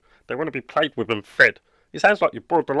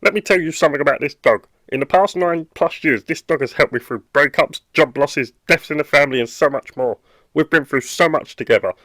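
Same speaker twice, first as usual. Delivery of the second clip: heated; 3 dB louder than usual. Acted. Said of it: "Okay, calm down".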